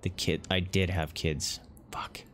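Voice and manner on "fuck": barely audible breathy swear; soft whispered dismay; whispered curse. Real, not acted. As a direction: exhale it in dismay. Realizes kids were lost.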